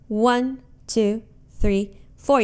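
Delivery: One given a firm accent, two three four lighter; stress on one. Shown as a demonstration. Teacher counting beats aloud, leaning on One. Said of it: "You can even hear it the way I'm, I'm counting".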